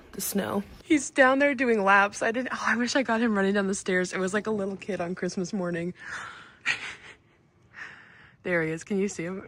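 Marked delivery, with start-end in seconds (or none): none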